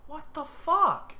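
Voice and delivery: slow, drawn-out high squeal of disbelief; stunned disbelief. Real, not acted. Player shocked at another bad draw, stretched high squeal. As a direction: let it out slowly, incredulous.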